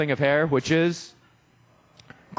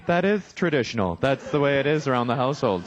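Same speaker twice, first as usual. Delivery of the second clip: lower wife impression; 3 semitones lower than usual. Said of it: "my wife sounds like that".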